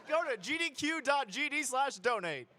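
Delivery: punchier, laughing delivery. Shown as a demonstration. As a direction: push it further with a laugh. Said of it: "give me a little bit more".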